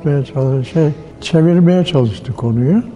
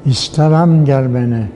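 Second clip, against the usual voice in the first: poem recital; 2 semitones lower than usual. Acted. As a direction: let each line hang like a poem. Recites Necip Fazıl poem. (ağır şiir okuma)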